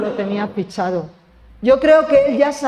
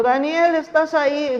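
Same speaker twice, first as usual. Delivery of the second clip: sad voice; 5 semitones higher than usual. Retold or imitated. A worried king calls into the lions' den, sadly. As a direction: call out sadly, expecting no answer. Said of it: "lo hizo con voz triste".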